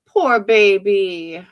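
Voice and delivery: slow, loud sarcastic pity; mock sympathy. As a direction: drag it out, dripping fake sympathy.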